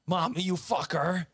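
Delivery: high, loud, slow outburst; freaking out. Retold or imitated. Brother freaking out at mom in Walmart, loud yell. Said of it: "he'll just be like".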